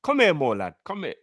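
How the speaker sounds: botched Scouse, starting high then dropping; bad Scouse accent. Co-host imitating a Liverpudlian for his friends, bad Scouse accent. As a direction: have a poor go at Scouse. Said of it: "Why can't I do a Scouse accent".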